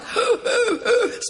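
high gasp caught between laugh and cry; sharp tearful gasp. Retold or imitated. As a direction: gasp as if the breath is knocked out. Overwhelmed as Spirit falls.

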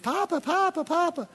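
mock kid begging Papa; kids calling Papa. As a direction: call out like an eager grandkid.

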